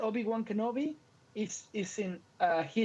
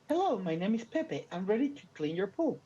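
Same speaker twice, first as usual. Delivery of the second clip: put-on Mexican accent. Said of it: "that was a racist joke".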